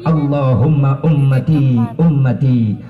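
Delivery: low, slow tearful supplication; trembling plea. Retold or imitated. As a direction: begin the prayer slowly and heavily. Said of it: "Rasul lambaina ngageter". (ngadu'a lalaunan bari sedih)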